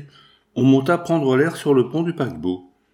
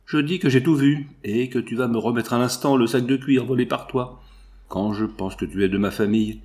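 through clenched teeth. Acted. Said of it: "reprit-il les dents serrées".

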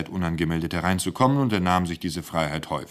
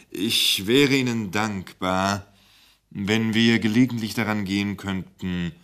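melancholy; 2 semitones higher than usual. Acted. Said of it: "blickte schwermütig".

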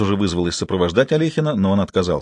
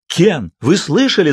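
much higher, slow, mild joyful yell; 8 semitones higher, 4 dB louder, slower than usual. A narrator's reading. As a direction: cry out in joy. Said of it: "завопил Антуан". (завопил от радости)

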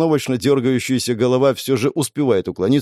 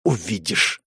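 said through teeth; 3 semitones lower, 4 dB quieter, slower than usual. Acted. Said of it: "процедила она сквозь зубы".

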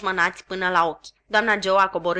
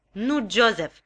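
a touch of reproach, a bit louder; reproachful; 3 dB louder, slower than usual. Acted. Sister still reproaching Joe. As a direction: chide him. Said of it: "încă cu reproș în glas".

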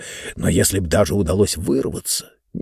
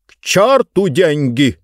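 scornful outburst; 5 semitones higher, 4 dB louder, slower than usual. Acted. Speaker dismisses money.

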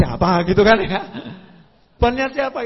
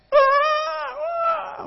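panicked cry. Retold or imitated. Preacher mimics a frightened plane passenger crying out. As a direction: yelp like a passenger gripped by fear.

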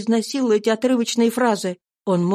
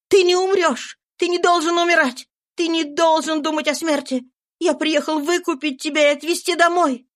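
fervent; 8 semitones higher than usual. A narrator's reading. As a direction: refuse to let him die. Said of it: "пылко говорил Джордж".

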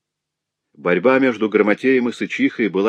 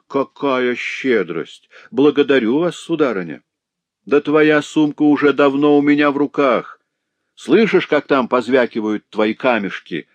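mocking sneer; 6 semitones higher, 4 dB louder than usual. A narrator's reading. Boy mocking the trapped woman.

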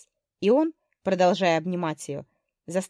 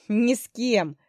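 higher call over the wind; shouting over wind; 4 semitones higher, 3 dB louder, slower than usual. Acted. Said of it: "крикнул он в ответ".

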